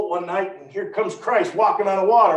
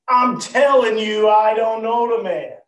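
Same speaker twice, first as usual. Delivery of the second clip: louder, firm flat-out denial; emphatic denial; 4 semitones higher, 5 dB louder than usual. Acted. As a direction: deny it hard, pushed into a corner. Peter's denial.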